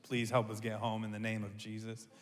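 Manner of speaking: dad praying in the car for time, soft and pleading; quiet prayer. Retold or imitated. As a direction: murmur a desperate prayer under your breath. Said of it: "I'm just praying and like".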